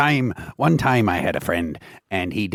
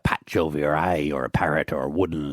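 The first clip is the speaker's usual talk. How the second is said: put-on hearty pirate accent, lightly done; 4 semitones lower than usual. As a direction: talk like a sea dog. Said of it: "doing the pirate voice today".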